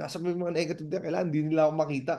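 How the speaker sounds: soft, fast, furtive; hushed hiding. Retold or imitated. Broke networker hiding from friends, hushed and furtive.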